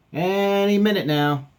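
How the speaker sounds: high, loud, drawn-out assurance; acted waiting. Captain waiting for wind, high insistent voice.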